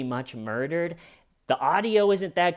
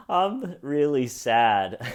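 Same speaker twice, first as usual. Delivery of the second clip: slow mock sad; slower than usual. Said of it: "she's just laughing the whole time".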